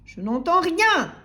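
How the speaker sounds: slow, high, loud holler; yelling milkman. A narrator's reading. Milkman dismissing timid customer, yelling. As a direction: bellow it in long loud words. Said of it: "hurla la laiti".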